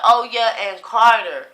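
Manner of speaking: woman calling out to Carter, mock yell; retold scream. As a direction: call the name out like she's yelling. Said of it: "this woman screamed out".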